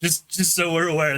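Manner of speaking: laughing. Real, not acted. Player reporting a lucky dice roll to the group, laughing. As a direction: say it through laughter, settling as you go. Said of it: "that's why I'm laughing".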